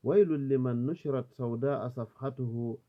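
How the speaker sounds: measured Arabic verse recitation; declaimed Arabic poetry; poem recitation. Acted. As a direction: recite the verses aloud, each line opening strongly and settling at its end.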